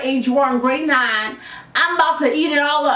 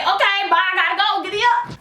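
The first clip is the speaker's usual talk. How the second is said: excited hurry; 5 semitones higher than usual. Retold or imitated. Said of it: "So I'm like".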